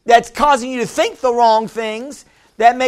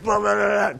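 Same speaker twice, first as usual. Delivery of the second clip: softer run-on babble; mock blabbering; 3 semitones lower, 6 dB quieter than usual. Heedless talker ignoring the Holy Spirit, mock blabbering. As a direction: blabber straight past the warning. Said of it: "You're like".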